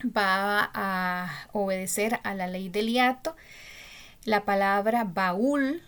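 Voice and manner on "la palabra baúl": baúl slowed, the ú stressed and rising; teacher's stress demo. Shown as a demonstration. Teacher showing students that baúl carries its stress on the ú. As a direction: stretch baúl and lean on the ú. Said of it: "se tilda".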